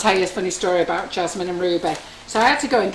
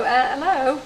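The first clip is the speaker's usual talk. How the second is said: mock exasperated; 5 semitones higher than usual. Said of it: "rein you all in and go".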